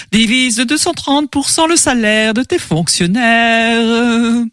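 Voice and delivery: slow eerie luring voice; siren voice. Acted. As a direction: tempt him slowly. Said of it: "des voix suaves".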